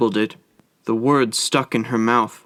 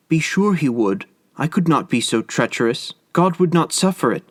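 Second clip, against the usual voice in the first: earnest cry; 4 semitones higher than usual. Acted. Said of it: "cried Kokua".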